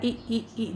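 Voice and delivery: ई repeated as a short i, like in ill; short i sound. Shown as a demonstration. Teacher drilling students on the short i sound. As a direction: sound out ई, ई, ई as brief short i vowels. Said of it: "बोल रहे हैं हम".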